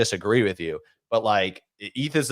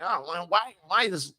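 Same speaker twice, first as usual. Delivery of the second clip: higher-pitched mock lament; mock despair; 6 semitones higher than usual. Mimicking traders whose mentality is messed up, mock despair. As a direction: lightly imitate someone wallowing in self-pity. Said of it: "their fucking mentality's all messed up".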